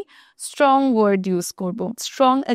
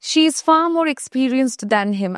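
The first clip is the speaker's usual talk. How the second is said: slow, stressing far; slow example; 2 semitones higher, much slower than usual. Shown as a demonstration. Teacher demonstrating far more to students, slow. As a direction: lean on far and take it slowly. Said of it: "যেমন far মানেও অনেক".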